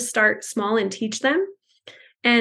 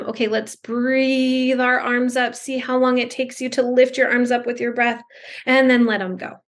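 slow guided breathing. Shown as a demonstration. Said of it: "I kind of modeled some".

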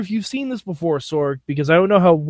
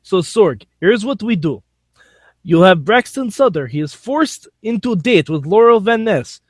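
bad Russian accent; hammed-up Russian accent, badly faked; 3 semitones higher than usual. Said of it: "How do you like my Russian accent?".

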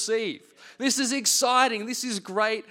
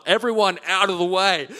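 mock military command, louder; military nurse; 5 dB louder than usual. Nurse clearing the hospital corridor of family, louder mock military order. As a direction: bark it like a drill sergeant clearing a hallway. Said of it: "she's like gone military".

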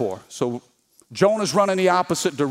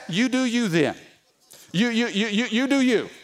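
mock concession; 3 semitones higher than usual. God humouring Jonah's refusal.

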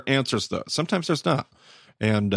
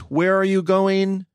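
"Where are you going?" asked high and slow; mock question; 9 semitones higher, slower than usual. Pastor voices the question the disciples should ask, high and slow. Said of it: "they're not asking the right".

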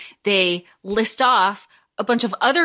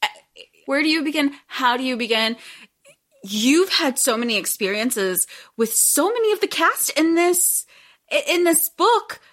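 echoey. Real, not acted. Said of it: "I'm sorry if I sound echoey".

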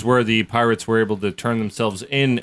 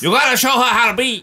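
high mock parent; 11 semitones higher than usual.

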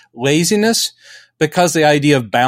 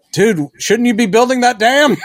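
mock exasperated; 8 semitones higher than usual. Speaker heckling Superman.

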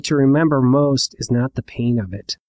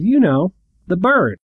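high, slightly louder mock explanation; bully explaining, pitched up; 8 semitones higher, 4 dB louder, slower than usual. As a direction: spell it out for the old man.

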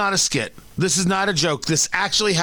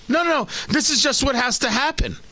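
high mock voice; 6 semitones higher than usual. Mimicking complacent people.

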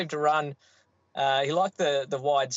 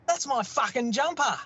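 imitating angry dad; 10 semitones higher than usual. Dad to son who wiped grease on his jumper, mock outrage. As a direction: play Dad's indignant reveal. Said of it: "And he goes".

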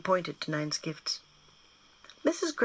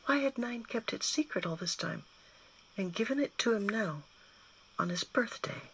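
ordinary delivery

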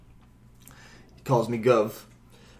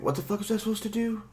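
baffled self-quote; 10 semitones higher, 7 dB quieter, faster than usual. Retold or imitated. Confused at the game, own thought.

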